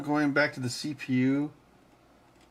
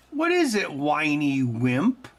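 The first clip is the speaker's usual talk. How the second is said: put-on squeaky baby talk; 2 semitones higher, slower than usual.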